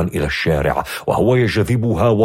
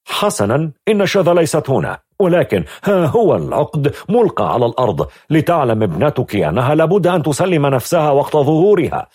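a firm officer voice, pitched higher and louder; police officer; 7 semitones higher, 4 dB louder than usual. A narrator's reading. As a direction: address the mother with official firmness. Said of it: "قال ضابط موجها الكلام لوالدتها". (ضابط شرطة حازم بصوت أعلى)

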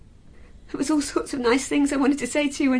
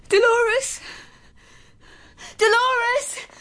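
calling out; 9 semitones higher, much slower than usual. Acted. Calling upstairs for Dolores.

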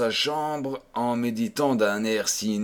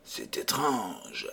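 much softer, slow murmured words; low voice; 3 semitones lower, 9 dB quieter, slower than usual. A narrator's reading. The officer murmurs with Renardino in the palace gardens, in a low voice. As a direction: keep it hushed between conspirators. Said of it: "causaient entre eux à voix basse".

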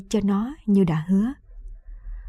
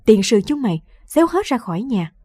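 retold shout, louder and rising; mock angry yell; 3 semitones higher, 3 dB louder than usual. Mother-in-law driving daughter-in-law out, mock angry yell. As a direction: bark them out of the house as the old woman.

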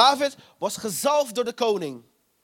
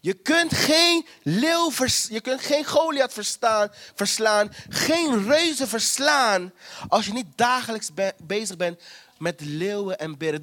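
full-force preaching. Real, not acted. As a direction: preach it from the pulpit with fire. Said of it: "ik ben aan het preken".

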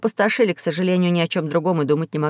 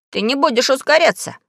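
exclaiming; 6 semitones higher than usual. A narrator's reading. Pashka forbidding the ship to speed up, exclaiming. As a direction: shout him down. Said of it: "воскликнул Пашка".

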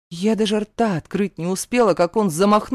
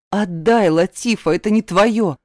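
louder, firmer demand; 5 dB louder than usual. Acted. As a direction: raise your voice insistently. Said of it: "повторила громче".

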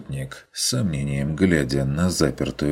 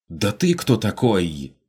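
indignant shout; 5 semitones higher than usual. A narrator's reading. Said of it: "возмущённо выкрикнул голос".

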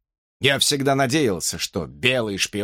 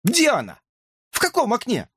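high, frantic squeaky questions; hamster frantic; 11 semitones higher than usual. A narrator's reading. Hamster begs to know which window, high frantic. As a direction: search the windows in a panic.

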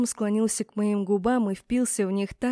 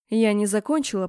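plain reading voice

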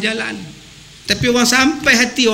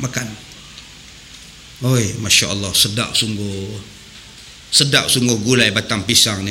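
a much lower mock guest voice; greedy feast guest; 12 semitones lower, 5 dB quieter than usual. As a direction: ham up a guest praising the curry. Preacher acts a guest at a feast.

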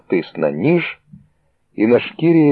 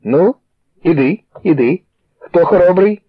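higher, louder mocking challenge; taunting thug; 9 semitones higher, 3 dB louder than usual. A narrator's reading. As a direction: dare them to step up.

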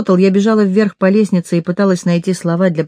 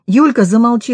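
a moderately raised, higher desperate cry; desperate shout; 5 semitones higher than usual. Acted. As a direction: cry out to stop her friend. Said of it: "закричала Машка так отчаянно". (отчаянный выкрик, выше и громче)

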